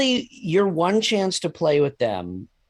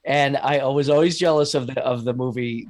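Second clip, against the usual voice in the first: usual speaking voice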